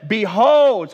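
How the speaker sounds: loud proclaiming call. Acted. John pointing the crowd to Jesus, loud call. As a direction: announce it to the crowd.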